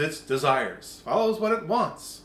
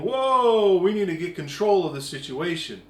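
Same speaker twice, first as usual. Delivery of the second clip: mock alarm; 5 dB louder than usual. Others alarmed.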